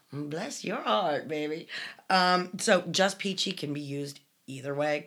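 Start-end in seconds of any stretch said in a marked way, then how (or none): 0.1-1.7 sarcastic Southern bless your heart. Shown as a demonstration. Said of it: "Or, you know".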